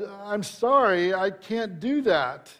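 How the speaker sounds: slow, timid refusal, understated; a young clerk nervously saying no, lightly voiced; hesitant and slow, a hint of fear; shaky voice. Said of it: "in a very shaky voice".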